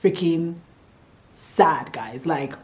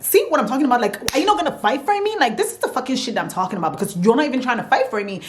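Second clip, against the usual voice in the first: high, heated demand, pitch jumping up; retelling a furious accusation at him; mock-angry confrontation with boyfriend; angry outburst; 6 semitones higher, faster than usual. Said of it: "that made me even more mad".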